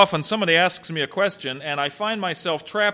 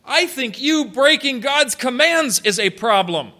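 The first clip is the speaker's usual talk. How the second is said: pointed retort; 5 semitones higher than usual. Acted. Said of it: "he brings it right back to the point".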